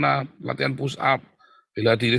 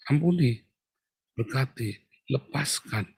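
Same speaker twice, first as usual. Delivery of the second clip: solemn instruction. Acted. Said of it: "saya kan ngomongnya".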